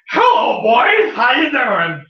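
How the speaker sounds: high, sing-song innocent hello; sweetly fake-casual to the guards; faux innocent greeting.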